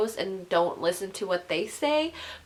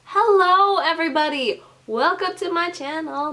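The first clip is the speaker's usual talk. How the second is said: loud high greeting take; restarting the line; 8 semitones higher, 8 dB louder than usual. Acted. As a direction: sing out hello to viewers. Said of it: "that sounded gross".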